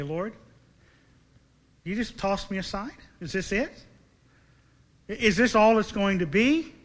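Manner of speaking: mildly bewildered prayer, questions lifting at the ends; acted confusion, pausing between appeals; confused questioning. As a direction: ask God in pained disbelief, halting between questions. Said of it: "He's confused".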